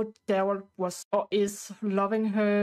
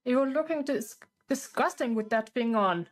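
raised, scolding voice for Daryl; Daryl yelling; 4 semitones higher than usual. Acted. Husband scolding wife over her surgery, raised angry voice. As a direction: tell her off about her new face. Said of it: "he will go to yell at her".

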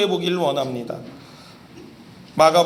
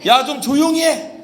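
higher and louder irritated scolding; crowd shushing; 8 semitones higher, 6 dB louder than usual. Retold or imitated. Crowd following Jesus telling the blind man to hush, irritated shout. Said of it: "얼마나 소리를 질렀는지 예수님을 따라가던 무리들이".

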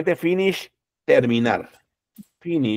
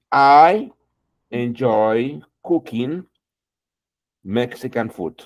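slow model sentence; slower than usual. Shown as a demonstration. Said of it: "con estos verbos".

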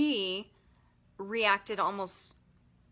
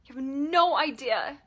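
louder, leaning hard on no; louder accusing yell; 3 semitones higher, 6 dB louder than usual. Pretend. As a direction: let the anger break through. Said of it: "and yelling".

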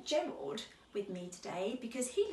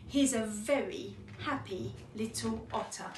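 measured picture-book reading; children's story narration; 4 dB louder than usual. Acted. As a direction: read gently paced to young children. Reads a children's story aloud.

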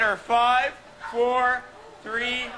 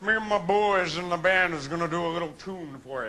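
Impression of a famous singer; 4 semitones lower than usual. Band intro in that singer's style.

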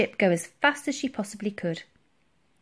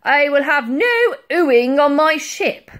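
loud, higher-pitched indignant admiral; thundering; 7 semitones higher, 10 dB louder than usual. A narrator's reading. Admiral rebukes oohing pensioners, thundering. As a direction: thunder it out like a commander. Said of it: "thundered the Admiral".

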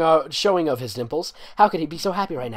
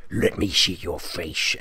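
bold; 8 semitones lower, slower than usual. Acted. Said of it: "Ashton boldly said".

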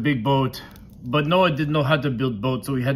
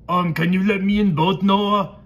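higher-pitched pleading voice for a story; mock pleading; 7 semitones higher, 4 dB louder than usual. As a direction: beg to be let in, high and playful. Bad guys plead in story.

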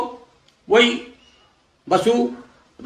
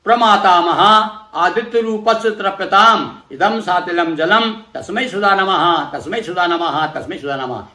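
mantra recitation. Shown as a demonstration. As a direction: intone it like a priest leading the offering. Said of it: "वही बोलेंगे".

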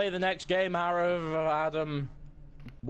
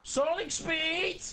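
announcer voice; 10 semitones higher, much slower than usual. Pretend. Shouted game announcement.

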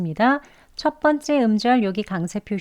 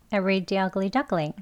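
quick, softer repeat; 4 dB quieter, much slower than usual. Shown as a demonstration. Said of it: "빨리도 해볼게요".

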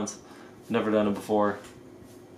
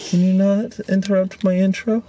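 higher, louder fake irritation; mock annoyed; 9 semitones higher, 4 dB louder than usual. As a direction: pretend to scold, then laugh it off. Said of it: "I'm just kidding".

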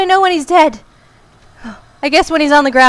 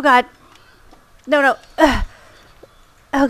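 normal talking voice

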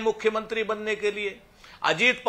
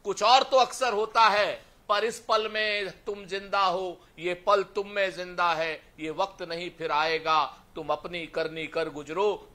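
poem recitation; 2 semitones lower than usual. Acted.

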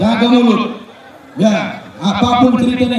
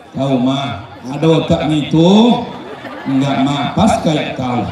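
put-on mother scolding child; 7 semitones lower than usual. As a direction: nag the child in a low mutter. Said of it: "Ibu kalau marah sama anak".

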